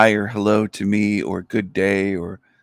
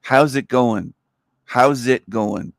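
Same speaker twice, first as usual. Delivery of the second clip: Canadian greeting; 2 semitones higher, slower than usual. Shown as a demonstration. Teaching viewers Canadianese, lightly mock Canadian. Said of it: "if you wanna speak Canadianese".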